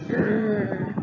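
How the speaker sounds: short mock growl through the teeth; a frustrated grr, gritting teeth; agitated growl. Teacher fed up with a child, mock growl. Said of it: "become agitated".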